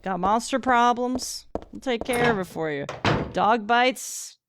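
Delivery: punchy cheesy ad delivery; mock TV ad. S0 pitching a fake monster law firm ad.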